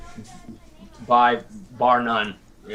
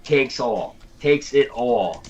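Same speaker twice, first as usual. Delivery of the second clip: slow, put-on Boston accent; slow New England accent, hammed up; Northeastern accent; slower than usual. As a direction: draw out a mock Northeastern accent. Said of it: "the best Northeastern accent".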